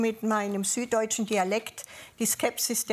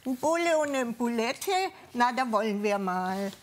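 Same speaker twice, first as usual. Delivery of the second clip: mock taunt settling back to usual pitch; retold drunk youths' taunt; 2 semitones higher than usual. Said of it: "Kam eine Gruppe stark betrunkener junger Leute".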